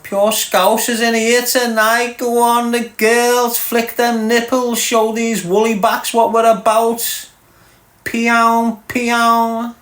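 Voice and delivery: high, slow hyped-up cheering; hype-man cheer. Real, not acted. Cheering on the girls against woolly backs, high and hyped.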